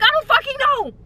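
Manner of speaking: high cracked mock cry; mock wail. Answering friends with a wailing mock cry. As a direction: wail it in fake despair. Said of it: "And I'm like".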